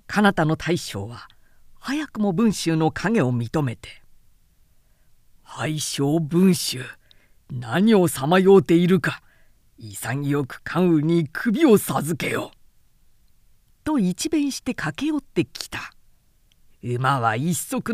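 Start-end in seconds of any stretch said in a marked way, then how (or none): 5.6-12.5 slow, weighty warrior's challenge; a general calling out his foe, unhurried and commanding; Guan Yu's challenge. Acted. Narrator voices Guan Yu's challenge.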